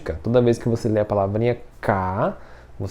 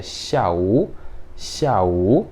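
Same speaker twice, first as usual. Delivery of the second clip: syllables joined; 3 semitones lower, much slower than usual. Shown as a demonstration. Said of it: "Ou eu posso ler ele junto".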